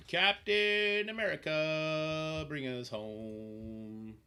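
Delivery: slow, drawn-out epic command; rally the hero like a movie trailer; slow mock-heroic proclamation; dramatic hero call.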